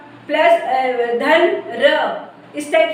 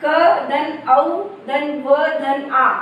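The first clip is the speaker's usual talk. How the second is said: slow spelling; slower than usual. Shown as a demonstration. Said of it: "यानी व में आ की मात्रा".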